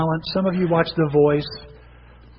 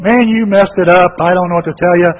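mean judge; 6 dB louder than usual. Retold or imitated. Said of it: "Howard Stearns is mean to him".

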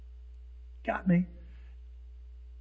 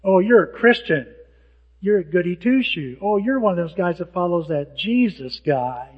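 louder, sneering taunt; scornful louder jab at a churchgoer; mocking insult; 5 dB louder than usual. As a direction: jeer at the believer like a scoffer. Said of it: "It was meant to be an insult".

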